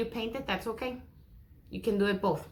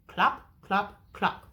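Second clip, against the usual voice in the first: horse hooves clop. Shown as a demonstration. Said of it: "He can sound like a horse feet".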